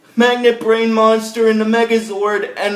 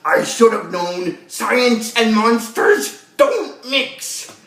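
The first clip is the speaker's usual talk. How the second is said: upset villain imitation, slow and drawn out; mock frustration, stretching out each word; Zed; much slower than usual. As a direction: play a thwarted villain, lingering on the words. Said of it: "He kinda gets upset that he lost".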